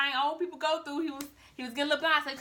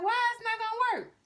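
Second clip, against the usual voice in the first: indignant mother; 10 semitones higher than usual. Acted. Mother indignantly questions son.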